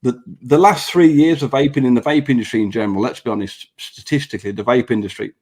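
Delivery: talking through braces; speaking with braces top and bottom. Real, not acted. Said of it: "I've got braces top and bottom".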